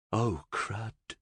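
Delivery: groaned. A narrator's reading. Florian seeing the convoys from the window, groaned. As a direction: groan it softly, sinking. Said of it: "he groaned".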